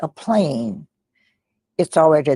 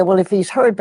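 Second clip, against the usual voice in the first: chastising; 5 semitones higher, 6 dB louder than usual. Retold or imitated. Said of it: "was chastising her".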